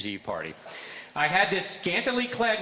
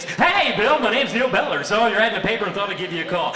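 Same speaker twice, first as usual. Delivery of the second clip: much higher and louder hyped radio announcer; fake DJ voice; 6 semitones higher, 8 dB louder than usual. Job seeker pitching himself to the DJ boss, hyped DJ voice. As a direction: sell yourself like a morning-show host. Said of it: "this D J voice".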